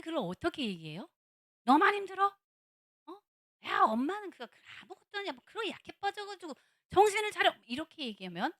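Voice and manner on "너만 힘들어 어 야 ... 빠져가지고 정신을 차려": high, loud nagging scold; mother dismissing child's struggle, loud scold; scolding parent. Retold or imitated. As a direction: snap at the kid like a preachy parent.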